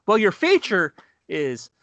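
mock host fumbling an introduction; forgetful stage host. Comic imitating a host forgetting the feature act, slowly stalling. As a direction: drag it out, searching for the name. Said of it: "and he goes".

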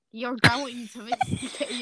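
lightly voiced male character; a hint of a boyfriend voice; his character voice. Shown as a demonstration. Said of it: "Yeah, that's his voice".

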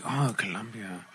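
soft, low imitation Filipino accent; subdued Filipino-accented imitation. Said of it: "She got the accent still".

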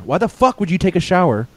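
high-pitched mock exasperation; exasperated disbelief. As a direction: question the customer in disbelief. Acted complaint at slow customer.

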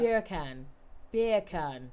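a mild English accent on "Beer can", like "bacon". Shown as a demonstration. Showing friends a mild English-accent trick. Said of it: "in an English accent".

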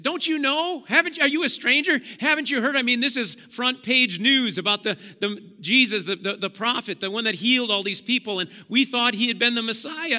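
high, pressing how-can-you-not-know; urgent disbelief. Acted. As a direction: tell the stranger the big news. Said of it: "And they said".

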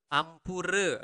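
ampura with a clearly rolled R. Shown as a demonstration. Teacher modelling Balinese sorry for learners, clear R. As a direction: pronounce the R in AMPURA distinctly. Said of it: "you need to pronounce the R clearly".

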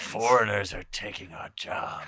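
slow, drawn-out boomer grumble; hammed-up headline panic, stretched out; mock alarmed boomer. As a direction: lightly mimic a paranoid old complainer. Mimics boomers reading scary headlines.

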